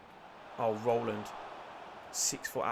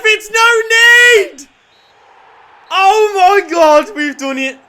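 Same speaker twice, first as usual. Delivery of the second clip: slow, loud, high yell at the ref; real outrage; furious shout; 12 semitones higher, 18 dB louder, slower than usual. Real, not acted. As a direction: bellow the words at the referee. Furious at ref, then win.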